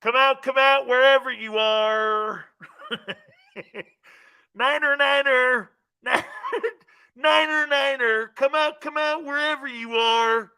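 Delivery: hammed-up movie-villain call; Robert De Niro. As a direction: call them out of hiding, playfully menacing. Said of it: "I sound like the guy, ... Robert De Niro's".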